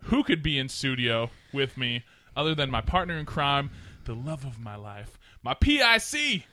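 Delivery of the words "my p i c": laughing. Acted. Playful spelling to partner.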